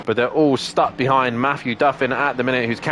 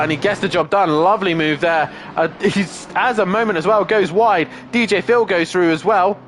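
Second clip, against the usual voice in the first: motorsport commentator; 5 semitones higher than usual. Real, not acted. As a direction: call the overtake with rising excitement. Overtake called live in race.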